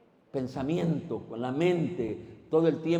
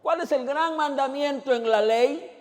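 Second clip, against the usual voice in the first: put-on young man asking; 9 semitones higher, 5 dB louder than usual.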